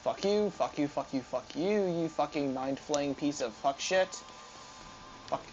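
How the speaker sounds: slow, seething curses; angry cursing. Real, not acted. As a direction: spit the insults out slowly. Cursing at the boss, slowly.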